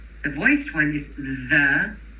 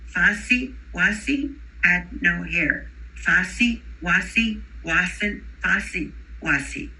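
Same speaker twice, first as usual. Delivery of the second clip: Fuzzy Wuzzy with S sounds instead of Z, slow; Spanish accent; slower than usual. Retold or imitated. Teacher imitating an emergent bilingual reciting Fuzzy Wuzzy, Spanish accent. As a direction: read the rhyme the way a Spanish-speaking child would. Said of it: "they're gonna say".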